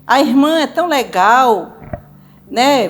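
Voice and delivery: gushing mock admiration, pitch climbing at the end; admiring comparison. Spouse holding up a church sister as example, mock admiring. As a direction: imitate someone pointedly admiring another.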